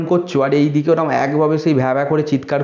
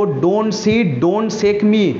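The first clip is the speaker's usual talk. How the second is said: crying out; 4 semitones higher, much slower than usual. Acted. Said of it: "চিৎকার করে কি বলছে".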